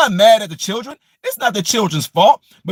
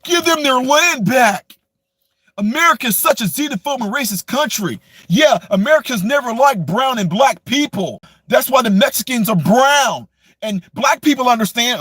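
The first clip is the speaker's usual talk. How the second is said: mocking activist voice; 3 semitones higher than usual. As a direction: parody their talking points. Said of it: "You guys go out there".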